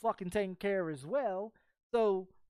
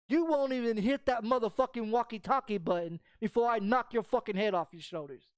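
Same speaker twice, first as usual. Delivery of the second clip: forceful, hard-driven threatening quote; acting out a heated warning; retold threat; 4 dB louder than usual. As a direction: replay the threat with heavy punch.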